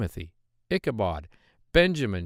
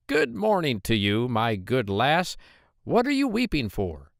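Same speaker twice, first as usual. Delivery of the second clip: droll little man; 2 semitones higher than usual. Acted. The little man greets the maiden.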